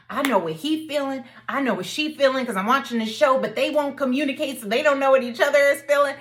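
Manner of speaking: rising from a whisper to an exasperated loud plea. Retold or imitated. Frustrated viewer urging a TV couple to talk, half-whispered then loud. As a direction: plead with the show's couple to just talk. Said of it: "I was just like".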